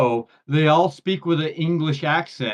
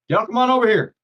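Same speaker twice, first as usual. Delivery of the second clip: raised, higher friendly holler; calling someone over; 8 semitones higher, 5 dB louder, faster than usual. Shown as a demonstration. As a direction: call them across to you. Shows y'all as friendly call.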